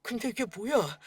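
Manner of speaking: ordinary delivery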